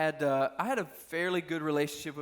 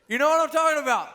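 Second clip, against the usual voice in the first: laughing; 11 semitones higher, 10 dB louder, faster than usual. Real, not acted. Laughing at scary parent story.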